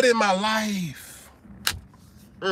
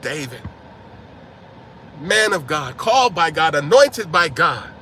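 honeyed flattery; 4 semitones lower than usual. Retold or imitated. Wife Abigail sweetly flattering David to calm him, low coaxing voice. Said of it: "she went up to David and was like".

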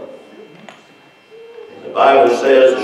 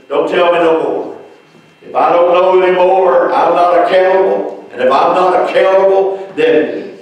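higher-pitched retold protest; mock refusal; 4 semitones higher than usual. Woman cutting off the preacher's witnessing, mock refusal. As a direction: imitate someone insistently shutting down questions. Retelling lady refusing more answers.

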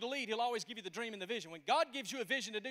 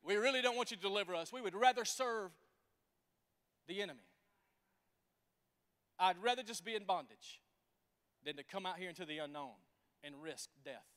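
mocking people; 3 semitones lower than usual. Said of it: "they're saying".

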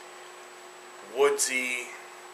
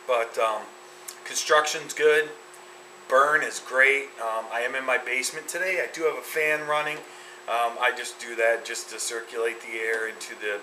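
speaking around a held cigar; words past cigar at mouth; talking with cigar at lips. Real, not acted. Seen 0: hand holds cigar against lips throughout speech; mouth partly covered.

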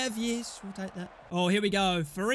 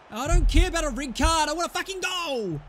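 angry demand; 7 semitones higher, 5 dB louder than usual. Real, not acted. Demanding a goal.

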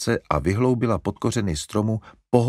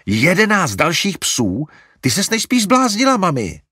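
Larry can't believe his ears; horrified outburst; 10 semitones higher, 7 dB louder than usual. A narrator's reading. Larry to mother about eleven puppies, horrified.

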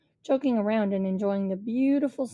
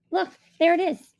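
loud, high excited shout; 8 semitones higher, 6 dB louder than usual. A narrator's reading. Rishi shouting to Rodney and Josh on the main street, loud. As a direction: call it out, pointing ahead. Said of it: "Rishi shouted".

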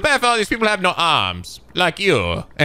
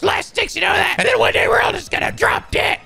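dramatic whisper. Acted. Gloomy NPC line.

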